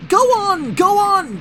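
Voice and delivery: very high, loud silly giggly voice; giggling trucks. A narrator's reading. Silly trucks giggling as they push Thomas. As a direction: tease him on. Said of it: "they giggled in their silly way".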